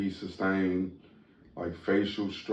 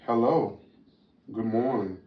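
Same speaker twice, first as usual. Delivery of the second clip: newscaster voice. Acted. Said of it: "Is that your newscaster voice".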